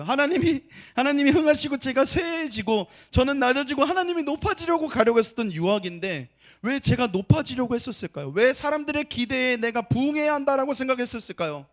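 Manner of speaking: anguished prayer. Retold or imitated. Pastor retelling his tearful prayer, loud pleading. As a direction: cry out the question to God.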